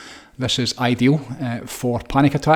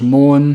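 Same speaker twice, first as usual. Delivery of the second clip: demo moan; 3 semitones higher, 10 dB louder than usual. Shown as a demonstration.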